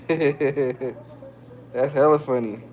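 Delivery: laughing through the words, slow and soft; can't stop laughing; slow giggly amused line. Real, not acted.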